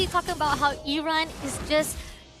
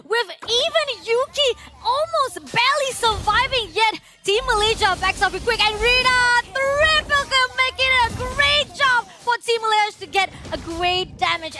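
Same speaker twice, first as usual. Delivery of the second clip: rising hype, louder and higher; excited play-by-play; 5 semitones higher, 3 dB louder than usual. Real, not acted. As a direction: call the teamfight with building excitement. Casting a fight, voice rises.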